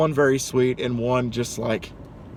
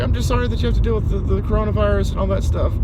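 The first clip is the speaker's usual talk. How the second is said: put-on high, quick old-lady voice; imitated apologetic old lady; 8 semitones higher, faster than usual. Old lady sorry about the virus, imitated high and quick. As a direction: hurry through the apology in a high voice.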